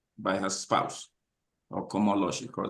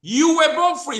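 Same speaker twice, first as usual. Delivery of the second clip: much higher and louder, a preacher's ringing cry; ringing proclamation; 6 dB louder than usual. Real, not acted. Host repeating the quote to viewers, ringing loud cry. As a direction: ring it out to the whole room. Third repetition of key line.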